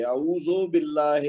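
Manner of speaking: "اعوذو باللہ" with zo and hay; wrong vowel demo. Shown as a demonstration. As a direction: say اعوذو with a loose o ending. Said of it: "ایسے کریں گے تو پھر وہ بات وہیں کی وہیں".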